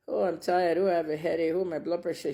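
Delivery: imitating a complaining old father; mocking father's excuses. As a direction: mimic a father dodging with ailments.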